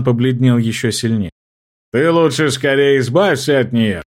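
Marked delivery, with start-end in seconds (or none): 1.9-4.0 threatening. Acted. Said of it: "угрожающе сказал старший".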